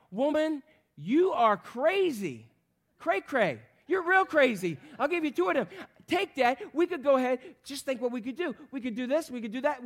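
hammed-up exasperated rebuke; mock scolding. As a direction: act out scolding her for wasting it. Preacher voicing his own rebuke.

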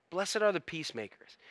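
quiet, reflective scripture echo; hushed repeat. Real, not acted. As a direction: drop the volume and let it sink in. Repeats the verse softly for reflection.

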